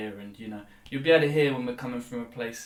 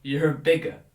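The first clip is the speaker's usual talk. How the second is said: a sudden louder mock verdict; mock accusation; 2 semitones higher, 8 dB louder than usual. Mocking people who call others bigots, loudly. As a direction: blurt it out like a loud accuser.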